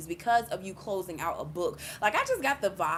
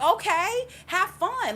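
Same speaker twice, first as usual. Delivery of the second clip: sarcastic dismissal; 12 semitones higher, 6 dB louder, slower than usual. Retold or imitated. Mocking the friend's dismissal.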